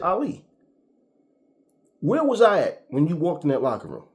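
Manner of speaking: high, loud, heated challenge; furious accusing rant, slowing at the end; retold angry confrontation. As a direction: call him out to his face.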